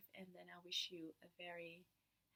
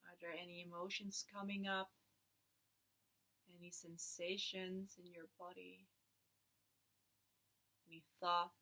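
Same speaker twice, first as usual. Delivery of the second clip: guided meditation. Acted. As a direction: lead them gently into stillness.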